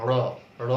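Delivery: র as a retroflex ṛ, tongue curled back; hard retroflex flap on র. Shown as a demonstration. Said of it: "মূর্ধাতে touch করে আসতে হবে".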